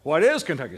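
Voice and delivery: "is" punched loud in "What is Kentucky"; stress on IS. Shown as a demonstration. Teacher models a quiz answer phrased as a question, stress on "is". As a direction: hit "is" hard and loud, as a quiz response.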